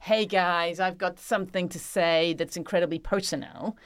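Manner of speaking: put-on American accent, semi-serious; mock American accent. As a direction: play at an American accent for a heartfelt confession. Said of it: "what we do with American accents".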